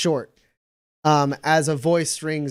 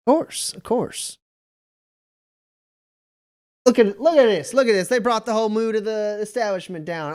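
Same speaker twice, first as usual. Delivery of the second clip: hearty captain; 5 semitones higher, faster than usual. Acted.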